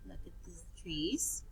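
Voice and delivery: quick soft whisper. Shown as a demonstration. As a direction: hush the class and whisper. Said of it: "teacher whispering to class".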